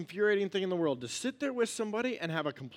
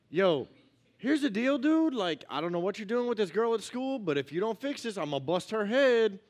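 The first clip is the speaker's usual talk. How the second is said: casual buddy talk; 4 semitones higher than usual. Retold or imitated. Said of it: "sit down and be like".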